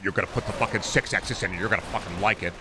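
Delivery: put-on a gruff generic European accent, barking the order; generic foreign accent. Executive ordering developers, in a generic foreign accent. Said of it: "Is that your Austrian accent".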